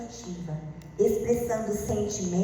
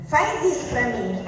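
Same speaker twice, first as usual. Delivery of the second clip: louder blunt order; bossy demand; 5 dB louder than usual. Shown as a demonstration. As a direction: push it as a command. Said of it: "Pode perceber que é diferente". (ordem mandona)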